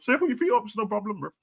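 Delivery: mock hospitality, high and airy; sarcastic welcome. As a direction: play the overly polite host, sarcastically. Mocking fans who welcome rivals.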